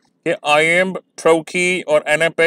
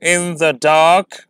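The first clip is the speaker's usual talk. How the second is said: very slow, with the weight on dark; in the dark with the stress landing on dark; anapaestic stress; much slower than usual. Shown as a demonstration. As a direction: say in the dark weak, weak, strong. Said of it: "ये और examples हैं".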